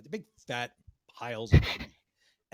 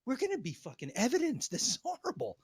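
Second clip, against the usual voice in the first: mock panic; 13 semitones higher than usual.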